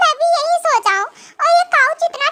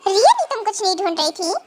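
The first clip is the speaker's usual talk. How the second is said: grumpy husband; 6 semitones lower than usual. Acted. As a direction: lower stern husband voice. Husband figure held voice. (नाराज़ पति, हल्की नीची आवाज़)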